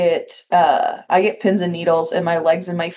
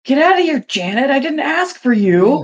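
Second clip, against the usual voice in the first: mock telling-off; 8 semitones higher than usual. Acted telling-off of the assistant.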